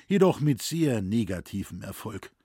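usual speaking voice

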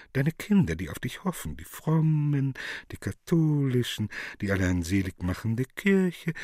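swelling eager list. Acted. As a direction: rush to reassure, rising each time. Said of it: "Cherub einfallend".

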